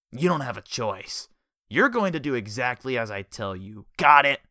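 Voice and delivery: building to a loud barked got it. A narrator's reading. Jellyfish ordering Richard around, rising to a loud bark. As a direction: raise the voice to end it. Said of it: "Jellyfish raised his voice".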